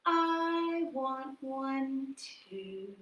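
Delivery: slow soft sad wish; slow longing plea. Shown as a demonstration. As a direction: draw it out sadly together. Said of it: "Can you do it again with me?".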